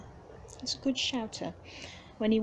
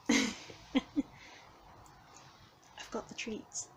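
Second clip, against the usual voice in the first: coaxing whisper; 2 semitones higher, 4 dB quieter than usual. Real, not acted. Coaxing hiding cat again.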